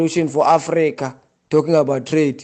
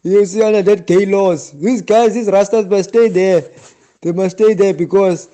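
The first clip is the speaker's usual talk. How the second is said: rising, louder indignant rant; angry rant; 3 semitones higher, 3 dB louder than usual. Real, not acted. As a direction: hammer each line home in anger. Heated rant against Jamaican Rastas.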